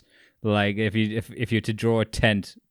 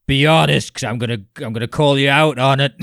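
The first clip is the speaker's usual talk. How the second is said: loud, raised hard-man challenge; 5 semitones higher, 8 dB louder, faster than usual. Retold or imitated. The speaker confronting the room about faith, acted hard man. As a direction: call them out, loud and fast. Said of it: "gotta be the hard man"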